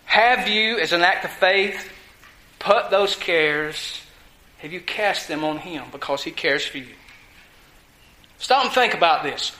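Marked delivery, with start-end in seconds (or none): 0.0-7.0 sincere appeal. Real, not acted. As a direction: draw them in gently and slowly. Pastor's soft personal appeal.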